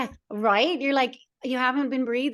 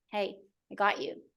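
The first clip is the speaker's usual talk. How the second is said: soothing; 2 semitones lower, 4 dB quieter than usual. Acted. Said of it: "they just need some soothing".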